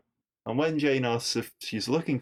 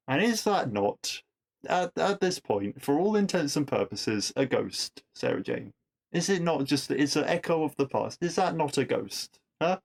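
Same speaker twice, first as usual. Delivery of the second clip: higher-pitched, exasperated challenge to a character; pointed, puzzled objection; incredulous questioning; 4 semitones higher than usual. Real, not acted. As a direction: press the point in disbelief, pitch lifted. Mock-challenging a fictional character's logic.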